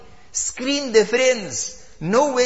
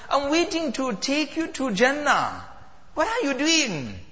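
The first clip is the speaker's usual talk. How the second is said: higher, gentle daughter's voice; 4 semitones higher than usual. Acted. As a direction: speak as the waiting daughter.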